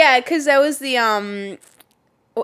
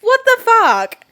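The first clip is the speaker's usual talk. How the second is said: very high, loud, slow disbelief; What the fuck, stretched and much louder; bigger shock; 13 semitones higher, 6 dB louder, slower than usual. Real, not acted. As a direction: drag it out, floored.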